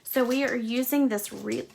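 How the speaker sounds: hiccuping mid-word; talking through hiccups. Real, not acted. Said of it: "I have the hiccups there".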